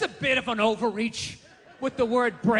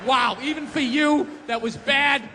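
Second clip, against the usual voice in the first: scolding. Retold or imitated. Scolding own reflection.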